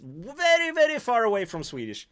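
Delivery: "very, very" stretched out and pitched high; joking exaggeration. Real, not acted. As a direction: overdo "very, very" for comic distance. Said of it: "I'm just kidding".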